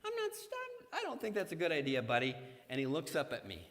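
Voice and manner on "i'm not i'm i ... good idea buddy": starts higher, then quick gentle dad warning; dad nudging son away from nails; careful dad. Retold or imitated. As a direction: tread lightly with the boy. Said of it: "my normal Patrick approach".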